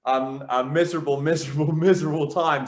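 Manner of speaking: smiling through the word miserable; a wry grin on "miserable"; light laugh inside "miserable time"; said with a smile. Shown as a demonstration. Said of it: "said with a smile".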